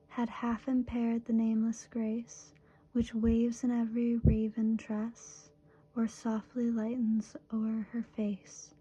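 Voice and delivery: measured, even recital with pauses at line ends; steady poem recitation, lingering on closing phrases; poetry reading. Acted. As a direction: read the verse line by line, unhurried. Reads a love poem aloud.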